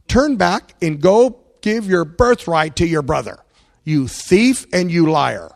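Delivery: mock stern rebuke, loud; scolding. Preacher voicing his own rebuke to Jacob, scolding. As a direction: deliver a hard, loud telling-off.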